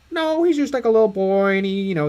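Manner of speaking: lightly put-on explaining voice; George Lucas. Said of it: "And then George's like".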